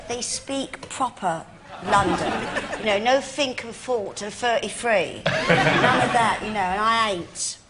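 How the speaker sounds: slow mock-genteel imitation of mum; posh Cockney mum. Imitating her posh Cockney mum on moving house, slow and genteel. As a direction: put on mum's airs, slowly. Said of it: "She said".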